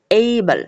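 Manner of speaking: এইবল with a gliding "ay", falling at the end; example pronunciation. Shown as a demonstration. Teacher reads out the A example, gliding এইবল. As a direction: say এইবল as "AY-bul", separately. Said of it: "উচ্চারণ সহকারে দেখিয়ে দিয়েছি".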